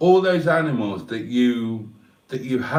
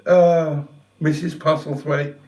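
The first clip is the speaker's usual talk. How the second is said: tearful; 2 semitones higher, 3 dB louder than usual. Real, not acted. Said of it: "a fat old bloke blubber".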